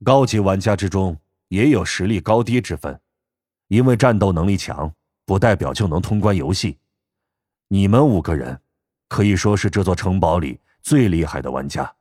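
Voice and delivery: calm old man, lightly voiced, low. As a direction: speak evenly like an old man. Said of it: "老头儿声音平静".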